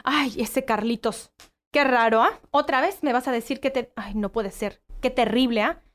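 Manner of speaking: overreact like a shocked parent hearing gossip; dramatic scandalized parent. Retold or imitated. Mother reacting to child's story, hammed-up alarm. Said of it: "En lugar de decir como".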